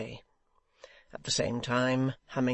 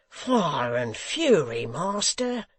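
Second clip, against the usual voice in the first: crying out; 3 semitones higher, 5 dB louder, much slower than usual. Acted. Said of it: "cried Hugh".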